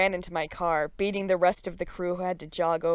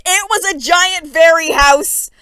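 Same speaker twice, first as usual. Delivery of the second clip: high, loud amazed gush; awed squeal; 10 semitones higher, 15 dB louder than usual. A narrator's reading. Girl arriving at the boys' house, high amazed squeal. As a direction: gasp at it in wonder.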